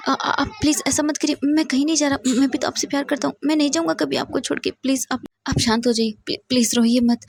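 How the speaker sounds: a lover begging his crying partner to calm down; anxious comforting. Acted. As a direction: soothe him, worried and pleading.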